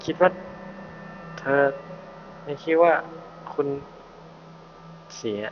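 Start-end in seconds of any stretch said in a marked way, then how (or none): 0.0-3.7 high, breathless rush of emotion; overwhelmed. Acted. Reunited with her mother, high and overwhelmed. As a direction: blurt it out, choked with feeling.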